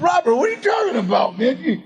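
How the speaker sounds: high, half-shouted protest to the director; mock indignant disbelief. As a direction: play up the disbelief, pointing at yourself. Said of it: "And I said".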